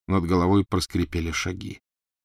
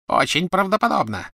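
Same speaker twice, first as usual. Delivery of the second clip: sneering; 12 semitones higher, 4 dB louder than usual. A narrator's reading. Bellatrix sneering.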